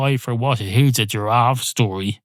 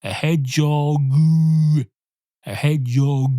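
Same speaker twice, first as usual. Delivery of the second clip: hedgehog, pushed out as a punchline; echoed punchline; 5 semitones higher than usual. Shown as a demonstration. Storyteller trying hedgehog and finding it tangles him. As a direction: try to make hedgehog land. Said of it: "I'm going hedgehog".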